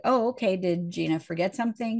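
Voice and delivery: breezy, unconcerned question; very casual. Retold or imitated. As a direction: toss it off like nothing's wrong. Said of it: "very casual".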